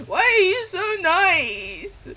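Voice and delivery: high and slow, voice catching; moved almost to tears; real emotion at kindness; tearful. Real, not acted. Moved by kind chat.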